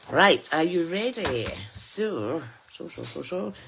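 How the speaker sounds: playfully hammed-up rallying call, loud start, then easing off; theatrical funny voice. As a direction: put on a silly, theatrical get-ready voice. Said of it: "talking in a funny voice".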